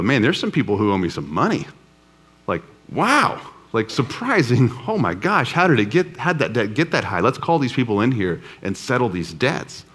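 a king gasping at his own ledger, half-playful; mock astonished king. King discovering huge debts in ledger.

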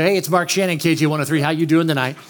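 lightly imitated radio DJ voice; Mark Shannon. Teen prankster posing as DJ, mock radio voice. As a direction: greet callers like a station host, only lightly put on. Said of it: "we would talk in our radio voice".

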